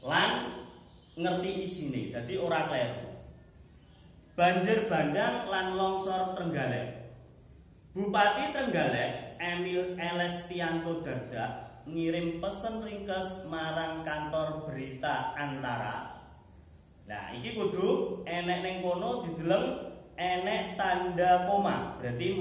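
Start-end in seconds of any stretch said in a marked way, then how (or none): 4.3-16.2 measured classroom read-aloud; model reading aloud. Shown as a demonstration. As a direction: read the news text with pauses at commas. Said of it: "Saiki dheweke nyontokne, eh, carane maca".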